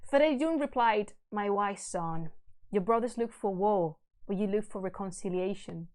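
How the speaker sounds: measured, solemn storytelling; stately reading of a verse tale; epic story narration. A narrator's reading. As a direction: read the old epic aloud with gravity. Reads epic aloud.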